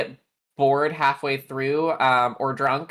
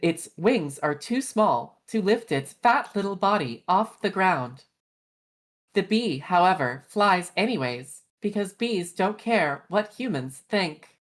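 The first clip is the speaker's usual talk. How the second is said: phone voice. Pretend. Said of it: "do the phone voice".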